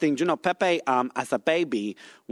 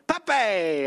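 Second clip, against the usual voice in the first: imitated announcer call; 5 semitones higher than usual. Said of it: "you were like".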